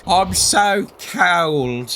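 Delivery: slow, moaning ghost voice; drawn-out spooky ghost moan. Retold or imitated. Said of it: "they say things like".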